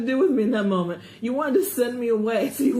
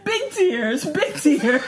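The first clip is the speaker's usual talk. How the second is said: mock comforting; 2 semitones higher, 4 dB louder, slower than usual. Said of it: "And he's going".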